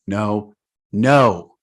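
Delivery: "no" dropped back down, then a firmer "no"; varied tone demo. Shown as a demonstration. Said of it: "The tone in which we deliver that word".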